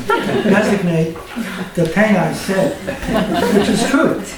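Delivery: slow Brooklyn accent, thing said as tang. Shown as a demonstration. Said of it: "say a Brooklyn accent".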